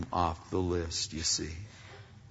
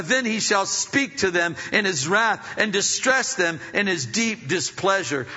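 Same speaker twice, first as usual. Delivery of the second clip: scripture reading; 6 semitones higher, 4 dB louder than usual. Real, not acted. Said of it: "It says in verse five".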